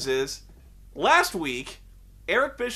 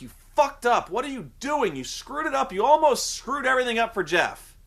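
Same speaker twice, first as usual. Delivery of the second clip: berating the referee; 5 semitones higher than usual. Retold or imitated. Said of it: "so he's berating this referee".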